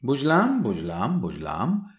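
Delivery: mock-knowing বুঝলাম sliding down; teasing repetition. Indranath teasing with repeated word.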